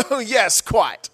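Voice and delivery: high, restrained British chuckle and approval; mock a reserved British audience, dropping in pitch; British crowd reaction. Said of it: "a really funny British joke".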